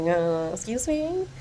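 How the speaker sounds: mock indignant customer; indignant sass. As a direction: call out being served last, offended. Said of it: "And I'm like".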